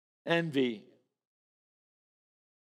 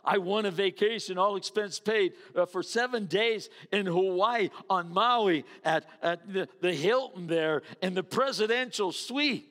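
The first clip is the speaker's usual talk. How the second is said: louder, bragging about a prize; excited bragging; 3 semitones higher, 6 dB louder than usual. Retold or imitated. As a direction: show off the free vacation. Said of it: "somebody goes".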